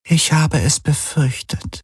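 measured, unhurried agreement; dry AI voice. Acted. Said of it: "hörte er die Helix sagen".

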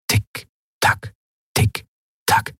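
whispered tick-tock; clock ticking. Acted. (geflüstertes Ticken der Standuhr)

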